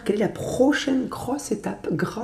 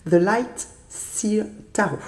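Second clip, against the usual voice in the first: careful, slow English with a French accent; slower than usual. Shown as a demonstration. Tarot reader warns viewers about her English, French-accented English. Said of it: "attention à mon accent anglais".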